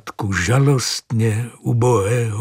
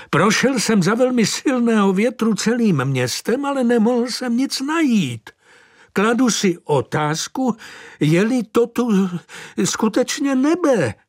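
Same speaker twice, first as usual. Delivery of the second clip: high, huffy prelate voice; a heated, indignant churchman; flustered bishop; 11 semitones higher than usual. A narrator's reading. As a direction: bishop complaining he found no throne.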